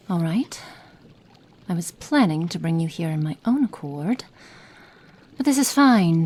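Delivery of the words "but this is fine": strained high exasperation; clearly fed up, pitched up; exasperated, high and loud. Acted. Exasperated then resigned repeat.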